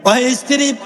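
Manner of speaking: high, ringing declamation with long pauses; husband addressing wife. Acted. Young husband tells his wife of Karbala, high impassioned declaiming. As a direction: call it out high, phrase by phrase. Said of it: "স্ত্রীর কাছে গেলেন".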